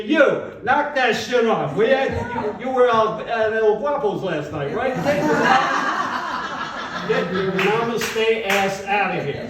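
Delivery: hammed-up angry instructor; mock scolding teacher. Yoga teacher scolding him.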